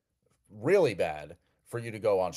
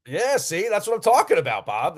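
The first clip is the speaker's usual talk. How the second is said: much higher and louder, delighted; excited cheer; 10 semitones higher, 7 dB louder than usual. Real, not acted. Host cheering as the caller finally agrees, excited. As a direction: cheer him on like he just scored a point.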